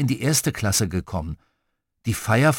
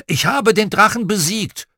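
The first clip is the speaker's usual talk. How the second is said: high, louder victory cry; triumphant shout; 9 semitones higher, 5 dB louder than usual. A narrator's reading. Brother on the dragon's back proclaims victory, triumphant shout. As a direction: call it out like a fearless conqueror. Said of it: "schwang er sich auf den Moosrücken und rief".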